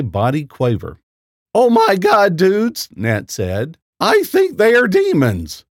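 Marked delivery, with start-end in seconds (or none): 1.5-5.6 high, frightened cry; panicking at the demons; panicked. Acted. Captive realizes nuns are demons.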